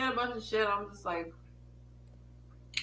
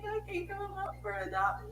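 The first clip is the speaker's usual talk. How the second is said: high-pitched imitation of crying self; mock tearful protest; 10 semitones higher, 5 dB quieter than usual. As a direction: squeal it through pretend tears. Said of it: "I was like".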